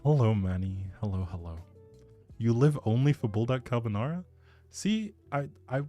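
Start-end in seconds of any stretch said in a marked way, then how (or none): none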